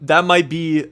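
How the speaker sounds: laughing, loud and high disbelief; stunned. Real, not acted. Floored by a lyric, loud laughing disbelief. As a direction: gasp it out like the bar floored you.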